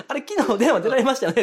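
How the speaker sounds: high, loud quote through laughter; amused mock accusation. Caller confronting wife about yesterday's call, high and laughing. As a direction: imitate a caller catching someone out, laughing.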